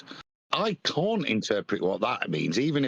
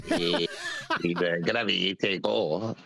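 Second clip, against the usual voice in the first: slurred, lazy foreign waiter voice; drunk Spanish waiter; 7 semitones lower than usual. Retold or imitated. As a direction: play a sloppy drunk waiter. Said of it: "some drunk Spanish waiter".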